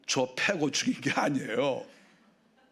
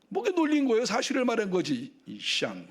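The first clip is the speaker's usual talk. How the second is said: sharp, much higher jeering comeback that sinks to a muttered insult; mocking retort; 5 semitones higher than usual. Abel taunting his older brother Cain, a high jeering retort. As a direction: throw it back at him with a sneer.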